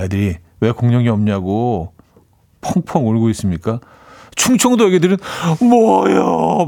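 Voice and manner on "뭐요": high, very slow drawn-out Chungcheong "뭐요?"; mock Chungcheong kid. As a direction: playfully imitate a Chungcheong child's stretched-out "뭐요?". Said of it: "막 이러면서 웃겠네". (느릿하고 높은 충청도 아이 흉내)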